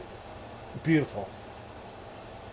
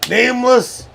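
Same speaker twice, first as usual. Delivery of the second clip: dramatic call-out; 6 semitones higher, 5 dB louder than usual. Acted. Calling out teammate's name.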